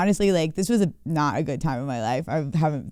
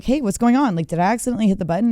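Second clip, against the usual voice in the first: fake innocent; 4 semitones higher, faster than usual. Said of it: "I'm like".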